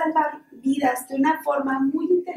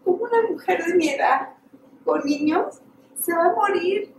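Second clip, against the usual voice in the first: tearful thought; 4 semitones higher than usual. Retold or imitated. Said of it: "estaba dándole la terapia llorando".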